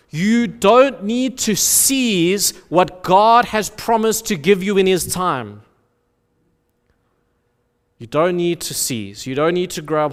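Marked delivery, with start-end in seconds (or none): 0.1-5.6 proclaiming. Acted. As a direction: ring it out like a proclamation. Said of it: "it shouts out".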